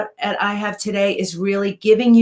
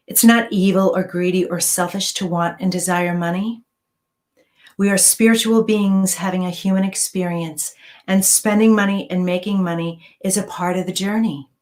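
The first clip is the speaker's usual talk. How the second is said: affirmation meditation. Acted. Reads money affirmation meditation.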